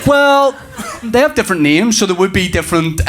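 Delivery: high-pitched opening, settling down as he bluffs; bluffing dad. Acted. Dad bluffs his son about seas, uncertain and high. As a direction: stall high, then improvise an answer.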